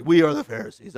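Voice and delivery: lightly deepened Pharisee; deep Pharisee voice. Shown as a demonstration. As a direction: put on a mild deep authority voice. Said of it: "we'll give them the deep voice".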